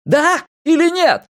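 high, slow frantic yell; desperate drawn-out shout; bellowed demand. A narrator's reading. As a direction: force an answer out of them. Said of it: "проорал Эрик".

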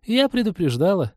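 high-pitched commiseration; commiserate, pitch lifted well up; sympathetic. A narrator's reading. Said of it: "сочувственно добавила Полина".

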